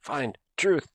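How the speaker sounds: high creature voice. Acted. Player voices mechanical creature.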